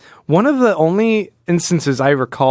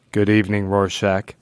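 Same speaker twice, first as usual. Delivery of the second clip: lightly voiced cold, distant greeting; a hint of a detached, robotic superhuman; cold Doctor Manhattan; 5 semitones lower than usual. Host imagining Doctor Manhattan greeting Rorschach, lightly cold and distant. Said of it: "cold and tinny".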